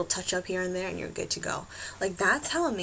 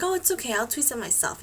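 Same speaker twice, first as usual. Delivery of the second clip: re-enacted high-pitched "no thanks"; polite refusal; 5 semitones higher than usual. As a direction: brush off the offer politely, pitched up. Acts out politely declining the offer.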